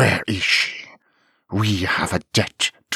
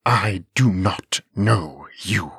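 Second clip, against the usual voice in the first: slow, clipped words of the beast; angry staccato dragon; 4 dB louder, slower than usual. Acted. Dragon rebuffing the stranger, angry and clipped. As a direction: bite each word off. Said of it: "The words came in an angry, clipped staccato".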